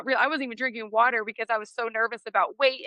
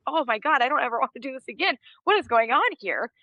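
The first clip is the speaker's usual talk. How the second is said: laughing disbelief; 4 semitones higher, faster than usual. Retold or imitated. Overwhelmed after winning again.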